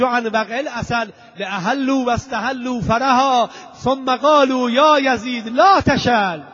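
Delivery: Arabic verse recited with rising force; measured chant-like recitation, building; verse declamation. Acted. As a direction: declaim the lines, drawing out the last words.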